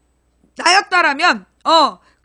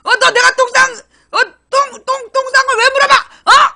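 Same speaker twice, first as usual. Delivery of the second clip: mock indignant; 8 semitones higher, 5 dB louder than usual. Culprit lashing out in poop story.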